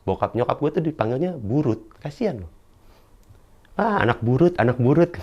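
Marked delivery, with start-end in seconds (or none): 3.8-5.1 higher-pitched imitated taunt; mock jeering. People mocking him through his mother's nickname, imitated jeering. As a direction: tease like a name-calling crowd. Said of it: "ejekan itu jatuh ke nyokap gue".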